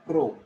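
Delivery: "pro" with a full O vowel; wrong long-O take of "pro"; mispronounced syllable. Shown as a demonstration. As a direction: say "pro" to rhyme with go. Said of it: "It is not pro".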